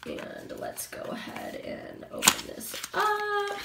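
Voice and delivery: hushed whisper while opening; soft whispered unboxing aside. Real, not acted. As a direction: whisper it like a little secret.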